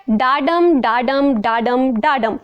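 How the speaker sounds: "डाडम" repeated evenly, each one a separate beat; mnemonic iambic beat. Shown as a demonstration. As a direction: tap out "डाडम" in regular pairs with short gaps. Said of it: "याद रखने की superb technique है".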